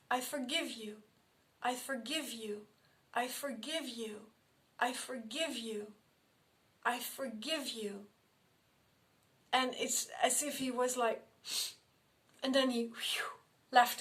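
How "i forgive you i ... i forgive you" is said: softly repeating I forgive you, stress on I; calm and gentle, letting each one land; soft forgiveness. Retold or imitated. Soothing an angry ghost with a quiet I forgive you. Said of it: "I said".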